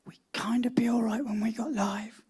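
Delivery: half-whispered, breathy aside; whispering. Real, not acted. The speaker whispering his story into the microphone. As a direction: hush the words as if into the mic. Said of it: "don't know why I'm whispering".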